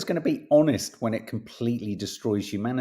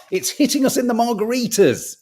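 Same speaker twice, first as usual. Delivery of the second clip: "margaritas" punchline read higher and louder with relish, stress on "hitting"; hammed-up headline delivery, leaning hard on "hitting"; relishing the pun on "margaritas"; gleeful tabloid quote; 11 semitones higher, 6 dB louder than usual. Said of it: "To quote the Daily Star".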